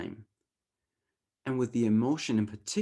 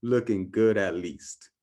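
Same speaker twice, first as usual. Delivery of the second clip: cool and confident; 4 dB louder than usual. Shown as a demonstration. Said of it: "mess this up as cool as I can".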